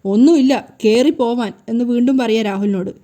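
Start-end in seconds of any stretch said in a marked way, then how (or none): 0.0-1.5 loud, heated snap at her husband; angry outburst. Acted. Shari losing her temper at Rahul, loud and heated. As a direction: bark him out of the room. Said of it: "ഇതെന്തിനാ അമ്മ ഇങ്ങനെ ചൂടാവുന്നേ".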